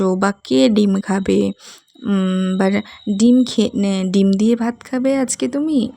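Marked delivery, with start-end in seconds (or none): 0.4-1.5 slow question with weight on ডিম; stress on ডিম. Shown as a demonstration. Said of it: "ডিম শব্দটির ওপর বেশি জোর দিতে হবে". 3.2-5.9 ডিম pushed forward firmly; stress on ডিম. Shown as a demonstration. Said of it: "ডিম শব্দটির ওপর বেশি জোর দিতে হবে".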